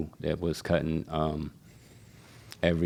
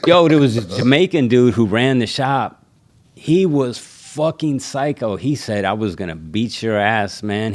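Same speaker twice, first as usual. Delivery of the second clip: higher, louder, half laughing through it; laughing retelling; 5 semitones higher, 6 dB louder than usual. Retold or imitated. Shop barbers recalling the psycho owner, laughing and louder. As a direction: tell it like it's still hilarious.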